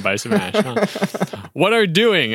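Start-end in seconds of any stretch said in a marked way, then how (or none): 1.5-2.3 puzzled question. Acted. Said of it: "asked Kevin".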